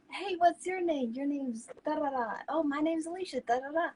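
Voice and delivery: a light impression of girls getting acquainted; chatty pageant girls. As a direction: play a friendly pageant girl meeting others. Acts out girls meeting.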